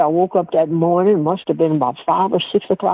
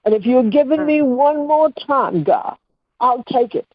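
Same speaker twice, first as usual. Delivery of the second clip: retold bargaining with God, pitched higher; earnest, higher-voiced plea; pleading prayer; 5 semitones higher than usual. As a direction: implore God for one more chance.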